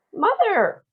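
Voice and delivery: high, loud cry of alarm. A narrator's reading. Mother crying to grandma who is shrinking. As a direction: cry out in sudden worry. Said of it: "cried Missus Bucket".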